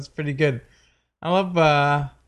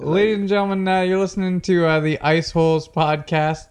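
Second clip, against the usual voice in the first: smooth host-style introduction; podcast host intro. Shown as a demonstration. Host opening the podcast after banter, announcer patter. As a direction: slide into a show intro. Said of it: "See how I did that?".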